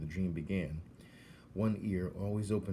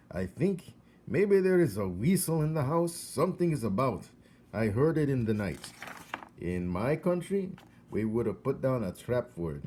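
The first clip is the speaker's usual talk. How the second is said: put-on higher, louder eccentric old man with a foreign lilt; eccentric old foreigner; 4 semitones higher, 6 dB louder than usual. Crazy old man upstairs telling Coraline about the weasel, high and excited. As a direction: play the odd old neighbour, spooked and excited.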